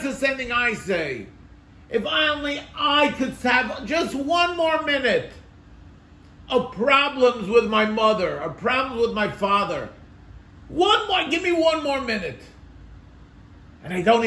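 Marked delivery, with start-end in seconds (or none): 1.9-12.4 high-pitched, yearning appeal; impassioned pleading. Acted. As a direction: plead with rising pitch for more time. Voices own longing for lost parents.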